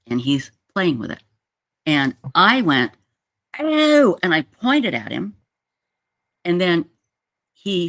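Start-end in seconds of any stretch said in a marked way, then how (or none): 3.6-4.2 high, loud "oh" of disgusted shock; retold scream. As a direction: cry out high, reenacting the shock. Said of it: "And I'm screaming".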